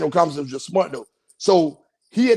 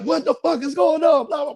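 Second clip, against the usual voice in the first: higher-pitched mock outrage at the scene; a friend's shocked yell, half-acted; retold angry outburst; 9 semitones higher than usual. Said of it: "he was like".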